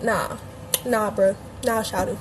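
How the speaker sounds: short Southern-accented refusals; casual, slangy Southern accent demo. Shown as a demonstration. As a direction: show a light Atlanta Southern accent. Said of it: "That's my Southern accent".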